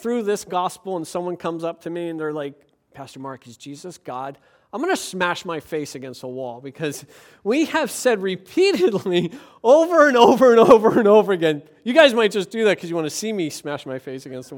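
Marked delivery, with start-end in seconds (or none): 2.9-4.4 much softer, meek asking; mock small question. 9.5-11.6 loud, laughing through the words. Real, not acted. Laughing while saying.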